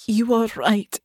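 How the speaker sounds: understated tearful admission; subdued, hurt apology. Acted. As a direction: concede with a touch of tears. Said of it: "her voice thick with tears".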